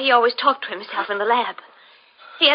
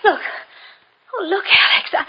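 breathless awed whisper; excited whisper; 7 semitones higher than usual. Acted. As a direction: whisper it in astonished delight. Excited discovery of new blood type.

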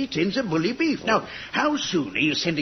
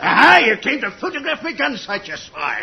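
angry accusation; 2 semitones higher, 4 dB louder than usual. Acted. Major accusing suspected spies.

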